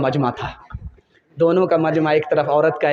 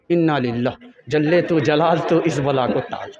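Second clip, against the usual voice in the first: a sour prayer to ward off trouble; daughter's grim mutter; 5 semitones lower than usual. Acted. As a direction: daughter lamenting her mother-in-law. Daughter complains about mother-in-law.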